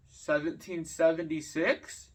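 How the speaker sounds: slow, unsure mock-dumb guess; clueless guess. Imitating the classmate's slow, clueless guess. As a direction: play the kid who has no clue. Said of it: "like, had no idea".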